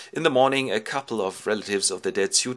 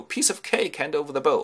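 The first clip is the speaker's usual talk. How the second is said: high, brash braggart voice; cocky suitors; 6 semitones higher than usual. Acted. Suitors facing the bow contest, cocky high voice. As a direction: boast it breezily, pitched up. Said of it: "And they go".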